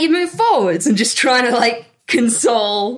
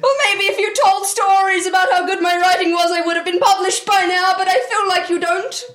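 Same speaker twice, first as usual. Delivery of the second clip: mock quarrel; 5 semitones higher than usual. Character argument over writing.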